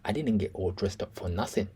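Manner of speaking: put-on understated British accent, quoting a fighter; crumpets-and-tea British accent. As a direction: imitate a very British turn of speech, softly. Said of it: "He tries to go down the crumpets and tea".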